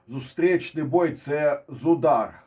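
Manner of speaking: zustrichnyi and zudar said slowly, each word spaced; deliberate slow correction. Shown as a demonstration. Analyst correcting the term for viewers, slow and deliberate. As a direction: spell out the proper Ukrainian term slowly. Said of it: "Давайте казати українською мовою".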